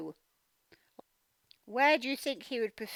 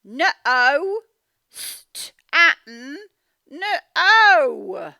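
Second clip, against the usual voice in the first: loud, firm calls of no; mum's loud no; 11 dB louder, much slower than usual. Acted. Mum calling out to Stan, loud and firm. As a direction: stop him with a firm loud no.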